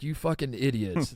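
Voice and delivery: fast, sassy, exasperated tone. Retelling how a friend explained sushi: imitating someone sassy. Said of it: "shot out of a cannon".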